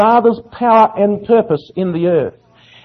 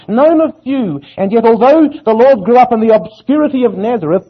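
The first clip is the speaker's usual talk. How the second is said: raised, ringing sermon delivery; impassioned preaching; 6 semitones higher, 3 dB louder than usual. Real, not acted. Preacher telling the congregation of obscure Nazareth, impassioned. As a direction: preach it with rising conviction, pitched up.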